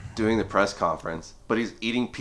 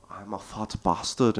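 put-on slow, understated Liverpool accent on a blunt confession; lightly put-on Liverpool accent, drawn out; Patty Pimblett's Liverpool accent. Retelling a fighter's podcast quip in a mild Liverpool accent. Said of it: "uh, Liverpool accent".

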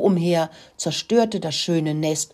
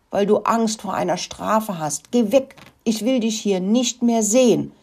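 wild angry clucking; 5 semitones higher, 3 dB louder than usual. A narrator's reading. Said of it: "gackerte sie wild".

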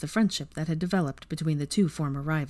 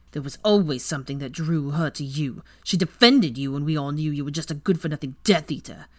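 louder, resentful rant; Weasley accuses Draco, bitter and loud; bitter accusation; 4 dB louder than usual. Acted. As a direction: pour out the grievance, rising in anger.

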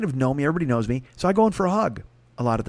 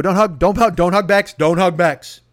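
1 inner warning; 4 semitones higher, 5 dB louder than usual. Retold or imitated. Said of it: "I go".

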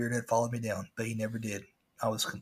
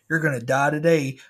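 louder, higher pirate growl of a threat; threatening pirate; 4 semitones higher, 9 dB louder than usual. Retold or imitated. Pirate animatronic hunting the narrator's boat. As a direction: menace the sailor like an angry pirate.

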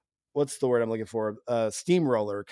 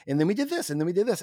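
droning recount; 4 semitones higher, faster than usual. Retold or imitated. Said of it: "it's very much like".

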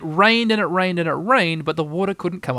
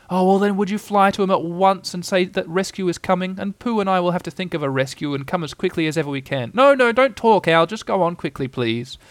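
urgent Christopher Robin; 4 semitones higher than usual. Acted. Christopher Robin urging Owl on.

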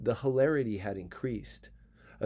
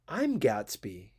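slow, low, abrupt self-introduction; sudden; 3 semitones lower, slower than usual. Acted. Gatsby suddenly reveals himself to the narrator, slowly. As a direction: drop it on him without warning. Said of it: "he said suddenly".

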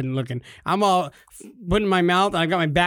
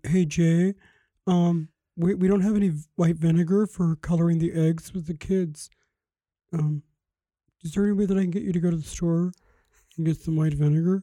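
Napoleon Dynamite voice. Retold or imitated. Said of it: "she talks like Napoleon Dynamite".

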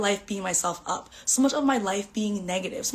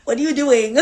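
incredulous; 4 semitones higher, 8 dB louder than usual. Retold or imitated. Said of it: "She was like".

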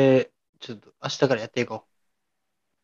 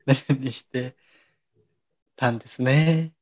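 clumsy salesman; slower than usual. Shown as a demonstration. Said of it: "下手くそ営業マン".

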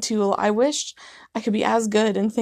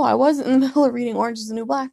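usual speaking voice

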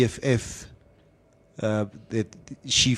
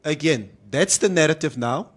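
emphatic retelling; 3 semitones higher than usual. Retold or imitated. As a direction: lay down the point firmly. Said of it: "and I said".

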